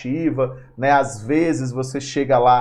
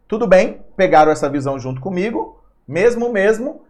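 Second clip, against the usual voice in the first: higher and louder, eager teacher check; upbeat check-in; 7 semitones higher, 6 dB louder than usual. Real, not acted. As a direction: pump the class up, louder. Teacher checking class excitedly. (professor animado perguntando se a turma entendeu)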